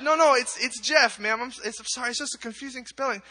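acted embarrassed explaining; apologetic correction. Acted child correcting the lady.

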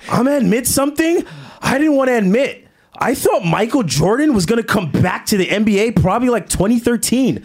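hammed-up dramatic tweet reading; hammy stage actor. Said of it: "Read it like an actor".

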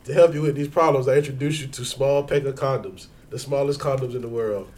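smooth, emphatic commercial pitch with a hint of laughter; mock ad read. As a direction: sell it like a radio sponsor spot. Improvised mock sponsor read.

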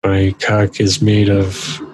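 slow, deliberate robot leader voice; lightly voiced, slow heroic robot; Optimus Prime. Transformer describing his metal body, slow mock-booming voice. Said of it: "Optimus's voice is like".

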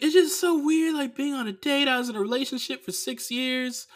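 high-pitched imitation of an awkward date; mock flustered little voice; childish awkward mimicry. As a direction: whine it up high like an uneasy kid. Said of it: "not talking like an adult".

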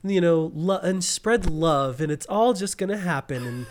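lightly mock a naive positive thinker; hippie thinker. Mocking hippie thinkers who just think positive, lightly put-on voice. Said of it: "one of those, like, hippie thinkers".

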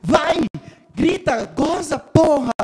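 high mock cheering yells; retold shouting. Man retelling how he urged his ex on from next door, mock shouting. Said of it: "porque eu gritava".

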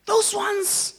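high, loud laughing exclamation; laughing pastor. Retold or imitated. Pastor on the phone, laughing and loud. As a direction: burst out laughing as you say it. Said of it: "That's Pastor Nkiwana saying that to me".

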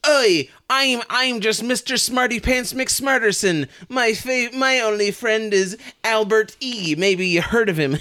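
a hint of a boastful brainiac; smug smarty-pants. Mocking the movie's boy genius, smug smarty-pants. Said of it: "it says repeatedly".

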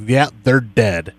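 slow, blunt matter-of-fact delivery; mock-blunt, unhurried announcement; imitated bluntness. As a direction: break the news bluntly, drawing it out. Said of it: "a very blunt person".

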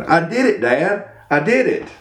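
lightly voiced proud little boy; triumphant boy. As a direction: imitate a kid's small victory cry.

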